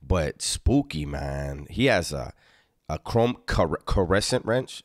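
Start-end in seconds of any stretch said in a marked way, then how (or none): 2.9-4.8 "caressant" said with stress on the middle syllable; imitated mispronunciation. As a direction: copy his odd "caressant" for crescent. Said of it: "You gotta say it like him".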